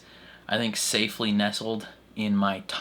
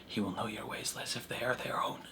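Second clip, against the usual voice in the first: mock quote; 10 dB quieter, faster than usual. Mocking Mon Mothma's mentor line.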